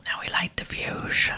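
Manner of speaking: slow, drawn-out whispered character voice; whispered dwarf demolitionist. Acted. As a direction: whisper it slowly, stretching and slushing the words. Plays Burntof in game dialogue.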